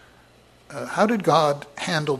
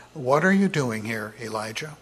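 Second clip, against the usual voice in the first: calm and soft; 3 semitones lower than usual. Shown as a demonstration. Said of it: "Very calm, very soft".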